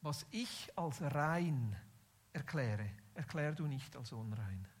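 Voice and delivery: lightly voiced voice of God, low and slow; understated, deliberate divine pronouncement; God's voice. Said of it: "eine Gottesstimme, die ihm sagt".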